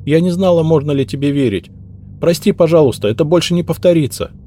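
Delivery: high, whimpering maid begging forgiveness; lamenting apology. Acted. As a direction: plead and wail a little. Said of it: "запричитала Мелинда".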